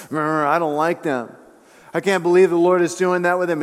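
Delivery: mock grumble of jealousy; bitter, jealous grumbling. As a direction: grumble sourly as a jealous rival. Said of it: "He grew bitter and jealous".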